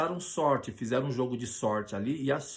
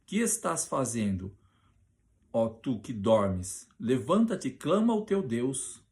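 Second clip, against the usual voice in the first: urgent ship master; slower than usual. Acted. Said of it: "e disse-lhe".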